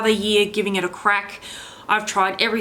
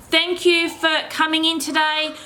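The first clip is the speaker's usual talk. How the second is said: vlog sign-off; 6 semitones higher than usual. Acted. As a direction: stretch out the subscribe plea, pitched up. Channel outro thanks to viewers.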